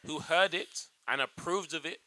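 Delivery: deliberate, unconvincing American accent; attempted American accent. Shown as a demonstration. Actor boasts about his auditions, laboured American accent attempt. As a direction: overwork a put-on American accent. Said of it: "He just can't do an American accent".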